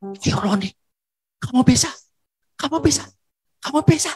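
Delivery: suara tinggi menyemangati, makin keras hingga berteriak; sorakan penyemangat. Retold or imitated. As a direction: seperti suporter menyoraki pelari yang hampir tiba, memuncak. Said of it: "tiba-tiba suaranya berubah, begini". (sorak semangat yang terus meninggi dan mengeras)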